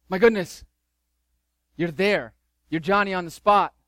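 cooing to the baby, lightly acted; doting parent. Parent rushing to a crying baby, mock excited.

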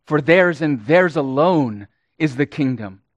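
both "theirs" punched, falling away after "alone"; emphatic "theirs", repeated for weight; stress on theirs alone. Shown as a demonstration. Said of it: "And we might say".

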